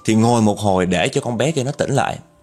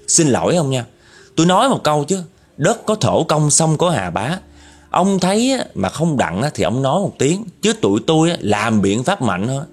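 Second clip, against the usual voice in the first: warning threat; 3 semitones higher than usual. Retold or imitated. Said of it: "Tôm nó chửi cái vong kia".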